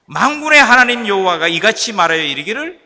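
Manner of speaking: loud, lifted scripture reading; scripture read in preaching. Acted. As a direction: proclaim the verse from the pulpit. Preaching at full force. (강단에서 힘차게 성경 낭독)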